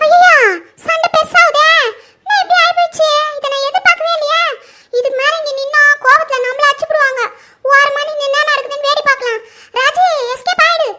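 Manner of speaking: a scared bystander plotting her escape; nervous comic aside. Acted. Onlooker frets aside as the fight grows, nervous comic aside.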